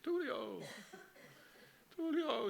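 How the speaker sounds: high-pitched acted shout of a name; repeated mock-distant call, pitched far up; alarmed calling out. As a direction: cry out after someone floating off. Linda calls out after Tulio.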